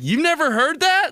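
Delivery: high-pitched mock amazement, rising; incredulous dad. Dad amazed his son doesn't know, high incredulous mock voice. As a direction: imitate dad, astonished, pitch shooting up. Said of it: "And they're like".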